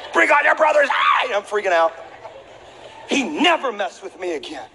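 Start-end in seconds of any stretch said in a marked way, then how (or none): 0.1-0.9 higher, louder hammed-up yell; mock wild challenge. Boy dares the bully's brothers, mock yell. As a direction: dare them all, half-crazed.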